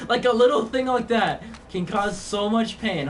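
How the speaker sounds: talking through laughter; giggling at how silly it was; amused laugh in the voice. Real, not acted. Laughing while retelling the pain.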